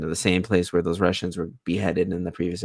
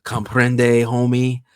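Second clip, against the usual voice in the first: louder, higher mock question; 4 semitones higher, 6 dB louder, much slower than usual. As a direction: taunt him like someone who speaks no English. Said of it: "they're kinda mocking him".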